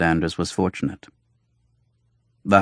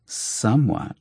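sarcastic lisp; 2 semitones higher than usual. Acted. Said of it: "Jolenta lisped sarcastically".

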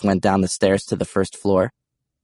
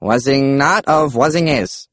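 nonsense muttering character; 4 semitones higher, slower than usual. Acted. The speaker adds nonsense in character.

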